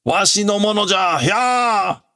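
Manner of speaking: put-on high, shouting old man claiming his land; hammed-up villain tantrum; raging old villain. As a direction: bellow ownership at the robots. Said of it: "Oh, this is him".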